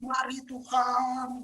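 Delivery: slow, drawn-out plea to God; mock beggar pleading with God; begging prayer. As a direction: beg like a pauper, stretching it out. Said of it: "Kita kayak pengemis bahkan".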